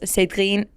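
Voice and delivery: Cédrine said the French way; French pronunciation. Shown as a demonstration. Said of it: "it's weird".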